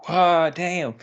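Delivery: loud, high imitated gasp of approval; impressed reaction. Friend reacts to woman leaving.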